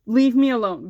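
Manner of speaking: a recalled loud outburst at the lockers; loud retort. Retold or imitated. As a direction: snap it out so the hallway hears. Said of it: "very loudly".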